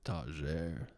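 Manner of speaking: Tager as "tah-ZHAIR"; French-sounding pronunciation. Shown as a demonstration. Host testing a model's surname, French-sounding pronunciation. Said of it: "that sounds French".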